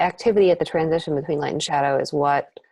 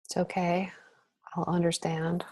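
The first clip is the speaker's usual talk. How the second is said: whispering; 8 dB quieter than usual. Real, not acted. Painter murmuring to herself.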